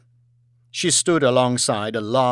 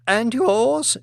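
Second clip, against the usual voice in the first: pointed question; 10 semitones higher than usual. Acted. Lady quizzing guests.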